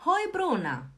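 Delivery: greeting classmates by name, cheerfully; cheery greeting. Shown as a demonstration. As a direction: greet each friend with a bright hoi. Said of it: "Ou eu posso falar".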